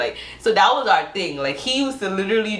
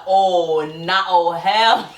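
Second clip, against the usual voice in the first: indignant; 4 dB louder, much slower than usual. Retold or imitated. Acted reaction to forehead insult.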